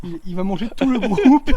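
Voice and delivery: giggling through the words; laughing. Real, not acted. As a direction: laugh while you say it. Laughing about monster joke. (en riant)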